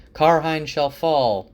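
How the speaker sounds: slow, high, loud chant; crowd shout. Retold or imitated. Crowd member shouting at Rand, slow loud rallying cry. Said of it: "there's a few shouts in the crowd".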